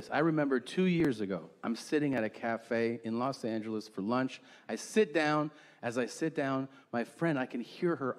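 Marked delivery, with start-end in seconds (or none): none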